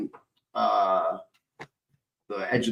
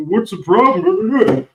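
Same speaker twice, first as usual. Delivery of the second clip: high, slow mocking whine; mocking dismissive people; 11 semitones higher, 6 dB louder, slower than usual. Mocking doubters of his pain, high and slow whining. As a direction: drag it out like a snide doubter. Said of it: "motherfuckers would act like fucking".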